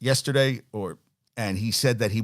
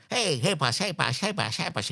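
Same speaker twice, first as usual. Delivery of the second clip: put-on higher, pestering whiny-kid voice; 5 semitones higher, 5 dB quieter than usual. Imitating a coach as a kid who won't shut up, whiny. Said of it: "just like that whiny kid".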